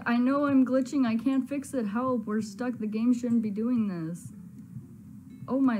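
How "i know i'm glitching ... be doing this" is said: glitching game character. Acted. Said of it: "He's like".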